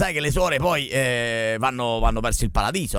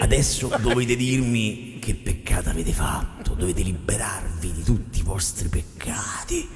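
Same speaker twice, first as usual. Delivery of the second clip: low hushed film-dubber tone; deep dramatic voice-over; dubbing voice; 6 semitones lower than usual. Acted. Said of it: "fa il doppiatore San Pietro".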